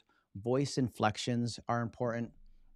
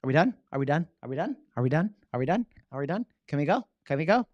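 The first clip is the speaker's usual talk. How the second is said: mock impatient pleading, higher and louder; 4 semitones higher, 5 dB louder, faster than usual. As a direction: beg to leave, rising on every done. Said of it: "And I'm going".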